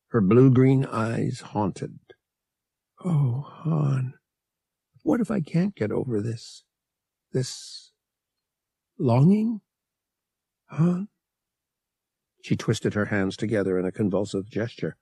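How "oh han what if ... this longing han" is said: higher-voiced heroine, pleading and anguished; anguished Leia. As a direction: plead with him, voice rising on the longing. Leia's anguished plea.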